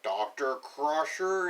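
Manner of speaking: slow, mildly scolding name call; a touch of stern reproach, drawn out slowly; lightly voiced annoyed captain; mock mad. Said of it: "And he's all mad".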